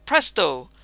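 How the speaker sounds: loud magician's cry; emphatic, loud incantation; conjuring cry. A narrator's reading. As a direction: call it out like a spell's final word. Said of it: "finally ends it with a cry of".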